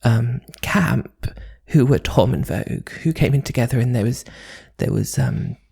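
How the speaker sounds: a mock high pitched posh voice; squeaky high voice. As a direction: keep the silly high voice going. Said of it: "put on your normal voice".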